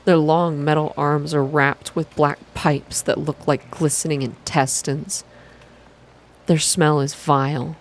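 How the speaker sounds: even, unhurried visual novel reading; calm, slow narration. A narrator's reading. Streamer reading a visual novel aloud, calm and slow. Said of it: "calm, slow".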